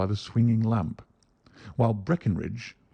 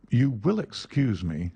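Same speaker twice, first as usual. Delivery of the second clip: bland; 2 semitones higher than usual. Acted. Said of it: "said Holmes blandly".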